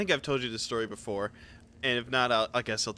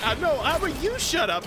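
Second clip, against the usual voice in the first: retold dad comeback; 13 semitones higher than usual. Acted quarrel, dad answering back.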